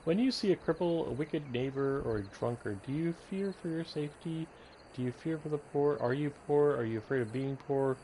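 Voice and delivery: measured read-aloud with lifted questions; earnest tract, phrase by phrase; pamphlet reading. Acted. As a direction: read the religious pamphlet out like a recruiter. Reads in-game pamphlet aloud.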